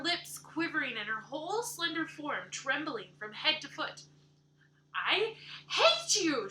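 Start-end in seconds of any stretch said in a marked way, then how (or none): 4.9-6.5 loud, higher, slow "I hate you"; choked cry. Acted. Anne shouting at Missus Rachel, choked with rage. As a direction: spit out each word in fury. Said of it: "she cried in a choked voice".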